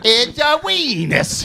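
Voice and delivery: put-on cutesy baby voice. High silly voice continues.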